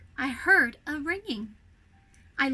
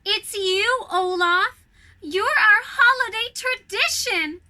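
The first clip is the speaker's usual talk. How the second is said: louder, higher joyful exclamation; excited; 7 semitones higher, 6 dB louder, slower than usual. A narrator's reading. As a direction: burst out with delight. Anna's joyful reveal to Olaf.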